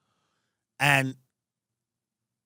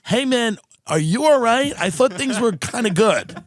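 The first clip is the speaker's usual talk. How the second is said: higher, concerned check-in from a friend; worried friend; 9 semitones higher, 4 dB louder than usual. Retold or imitated. Friends asking the new spider owner if he's okay, worried. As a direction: sound gently alarmed about your buddy. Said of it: "They'd be like".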